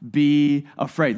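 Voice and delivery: calm a frightened man; Jesus soothing Simon; slow reassurance. Retold or imitated. Jesus' words read slowly.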